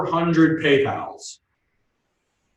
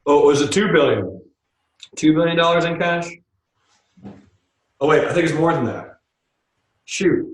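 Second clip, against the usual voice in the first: sarcastic; 3 semitones higher than usual. Real, not acted. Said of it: "Sorry, I'm trying to be sarcastic".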